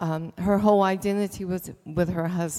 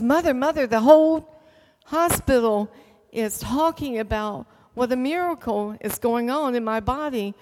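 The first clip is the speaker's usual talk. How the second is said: higher and louder, bursting with news; excited; 4 semitones higher, 3 dB louder than usual. Retold or imitated. Daughter phoning her mother about the miracle, excited. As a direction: blurt it out thrilled, Mother, Mother.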